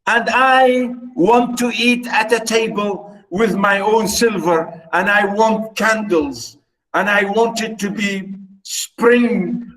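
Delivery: high mimicking voice, sing-song; mocking. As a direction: parrot her wishes back mockingly. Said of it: "And he's mocking her".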